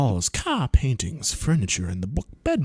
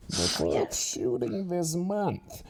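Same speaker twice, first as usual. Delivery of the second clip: lightly voiced slow villain newscaster; a hint of Bane reading the news; 3 semitones higher, 5 dB quieter, slower than usual. TV reporter voiced for no reason, lightly like Bane. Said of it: "is gonna sound like Bane".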